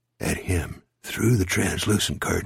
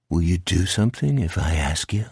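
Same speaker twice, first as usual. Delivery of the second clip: low, controlled monster voice; low menacing bargainer; sinister creature; 5 semitones lower than usual. Acted. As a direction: question him low and coolly. Creature questions crying Jack.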